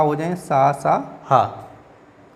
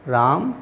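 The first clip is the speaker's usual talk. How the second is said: राम on its own, then a brief stop; राम set apart as if before a comma; pause after name; much slower than usual. Shown as a demonstration. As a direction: say राम and halt. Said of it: "थोड़ा रुकना है".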